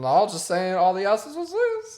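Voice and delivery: high, slow, slurred excuse; drunk slurring voice. Pretend. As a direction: slur it like a tipsy driver. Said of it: "I'm gonna do that now".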